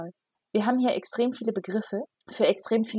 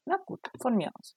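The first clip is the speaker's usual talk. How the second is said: whispering; 3 semitones higher, 4 dB quieter than usual. Real, not acted. Widerwillig zustimmen.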